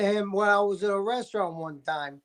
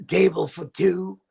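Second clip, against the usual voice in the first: Harvey Fierstein. Retold or imitated. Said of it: "his voice is, again, iconic".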